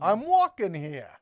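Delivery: slow, loud, leaning on walking; hammed-up indignant pedestrian; mock outrage. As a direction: shout it like an offended New Yorker in traffic. Classic movie line, mock indignant.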